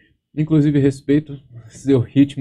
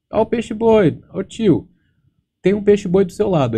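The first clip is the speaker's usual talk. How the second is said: put-on high, loud child's shout; kid calling out; 9 semitones higher, 4 dB louder than usual. Beach kid calling to the narrator about the manatee, high loud shout. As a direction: yell it like a kid who spots something.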